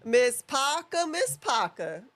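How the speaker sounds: slow drawn-out "Miss Parker"; teasing call. Pretend. Co-host teasing about Jada Parker, slow drawn call. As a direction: stretch the name, teasing. Teasing calling her name.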